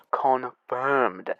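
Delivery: "confirmed" broken into slow, weighty syllables; emphatic. Shown as a demonstration. Putting emphasis on that word for viewers, "confirmed" said deliberately. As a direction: set "confirmed" apart, soft and deliberate. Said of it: "We're gonna put emphasis on that word".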